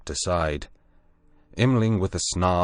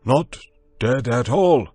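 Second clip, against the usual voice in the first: louder, higher insistent denial; emphatic denial; 6 semitones higher, 7 dB louder than usual. A narrator's reading. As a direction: insist hard. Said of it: "he said slowly".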